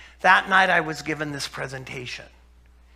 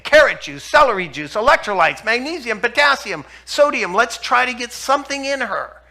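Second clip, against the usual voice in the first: louder, driving the list home like a frantic order; urgent, raised-voice pleading; urgent loud push; 5 semitones higher, 9 dB louder than usual. Retold or imitated. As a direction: rattle off every remedy as if her life depends on it. Desperate push to feed patient.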